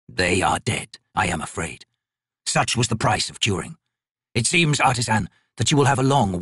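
lightly voiced ancient god, slow and measured; a crippled god. Crippled god judging the painter's work, slow and cold. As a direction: speak down to the mortal like a bored deity.

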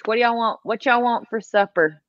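light Southern lilt on a supper question; casual Southern family talk; Georgia accent. Retold or imitated. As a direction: let the Georgia accent slip out. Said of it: "that's when my accent will come out".

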